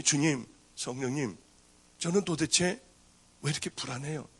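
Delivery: 낮고 조용하게 천천히 주님께 묻는 기도; 간절한 기도. Retold or imitated. Praying to the Lord, anxious. (나지막이 천천히 드리는 기도)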